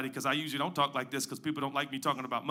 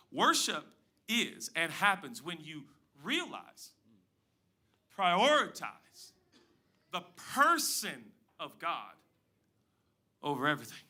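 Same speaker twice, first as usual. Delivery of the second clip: slow restatement. Shown as a demonstration. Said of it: "I'm gonna say it again".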